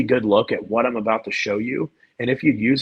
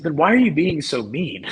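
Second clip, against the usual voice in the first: playful mock hurt; 5 semitones higher, 4 dB louder than usual. Teasing retort to the angry man.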